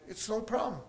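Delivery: soft, unbothered retold reassurance; nonchalant calm. Coworker dismissing the paint spill, nonchalant. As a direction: shrug it off quietly. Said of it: "how this guy just, like".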